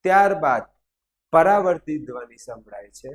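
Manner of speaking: drawn-out phrases with pauses; teacher reading out for note-taking; slow dictation. Acted. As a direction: dictate it slowly, chunk by chunk. Repeats the sentence for dictation.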